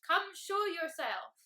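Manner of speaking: slow, loud booming dragon voice; rumbling dragon. A narrator's reading. Unseen dragon calls Mister Tickle out of the bush, slow rumbling boom. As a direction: boom it out, drawing the words out. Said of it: "rumbled a very deep voice".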